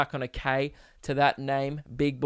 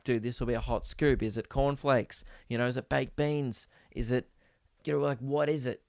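softer eager musing; inner thought voice; 3 semitones lower, 6 dB quieter than usual. Retold or imitated. Podcaster imagining the breakfast scoop, softly to himself. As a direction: think it to yourself, hushed. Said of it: "Thinking, I'm like".

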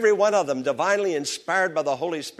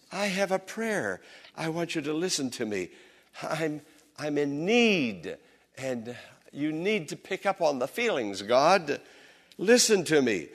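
quiet plea. Acted. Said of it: "the psalmist was saying".

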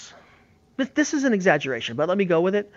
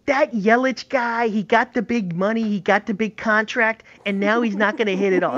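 higher, slow Midwest fan caller voice; Midwest accent; 6 semitones higher than usual. Pretend. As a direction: call in like a Midwest radio fan. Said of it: "I was trying to do a Midwest, Midwest accent".

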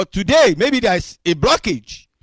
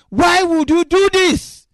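pleading question; 10 semitones higher, 5 dB louder than usual. Retold or imitated. Preacher pleading with God about Moses.

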